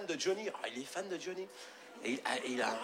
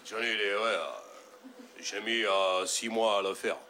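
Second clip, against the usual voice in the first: low, slow lightly voiced rocker; proud Johnny; 5 semitones lower, slower than usual. Johnny telling the fan about his puzzle, low and proud. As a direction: boast like a dim star.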